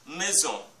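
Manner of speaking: Maison with "son" held longer; Maison, weight on "son"; stress on final syllable. Shown as a demonstration. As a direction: lean on the last syllable of Maison. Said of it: "zon est la syllabe la plus forte".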